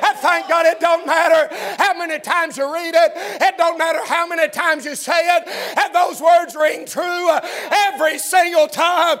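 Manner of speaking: rising revival cadence; preaching. Acted. Preacher driving home the verse to the church, fervent. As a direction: press each phrase, slowing near the end.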